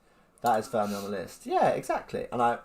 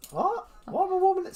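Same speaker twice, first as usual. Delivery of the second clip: high-pitched incredulous reaction; puzzled, indignant squeak; baffled; 4 dB louder than usual. Retold or imitated. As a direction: act bewildered by a pointless request. Acted baffled reaction to odd request.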